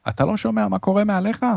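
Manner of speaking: high, urgent captain's cry, little added volume; incredulous shout. A narrator's reading. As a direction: demand it in a high-pitched shout. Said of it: "הוא צעק". (צעקה נסערת וגבוהה)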